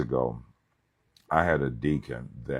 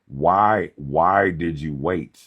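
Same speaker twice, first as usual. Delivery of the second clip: pleading preacher cry; 6 dB louder, much slower than usual. Acted. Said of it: "My question is this".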